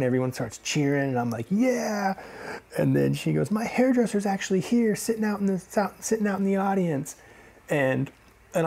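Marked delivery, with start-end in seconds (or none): 1.5-2.1 high-pitched mock cheer; imitated crowd-member whoop; retold cheer. Acts out cheering from audience. 3.5-7.2 high-pitched imitation of a stage performer; high mock stage voice; comedian onstage.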